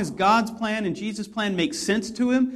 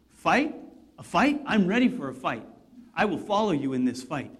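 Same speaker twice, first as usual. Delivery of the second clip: eager Peter. Retold or imitated. Peter voiced, eager for battle.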